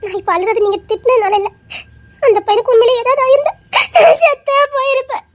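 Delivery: talking through tears; wife explaining why she is crying; tearful. Acted. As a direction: let the sobs break in.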